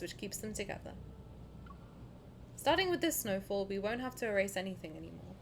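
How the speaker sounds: measured read-aloud, softening at phrase ends; story narration. Acted. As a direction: read it as a quiet first-person story.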